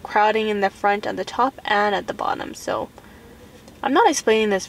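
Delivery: lips pulled apart by fingers; talking with fingers at lips; fingers stretching mouth corners. Real, not acted. Seen 1: index fingers hook mouth corners, stretching lips open while speaking.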